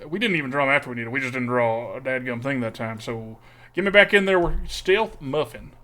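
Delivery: put-on a lightly done, made-up Texas accent held all stream. Streamer forced by a viewer redemption, lightly put-on Texas accent. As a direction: keep up a hammed-up Texas accent the whole time. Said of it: "I have to talk like this".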